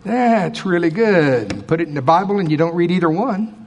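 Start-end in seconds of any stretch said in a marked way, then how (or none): 0.0-1.7 drawn-out hollow praise; slow mock praise. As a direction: say it slowly without meaning it. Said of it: "Here's what else doesn't work".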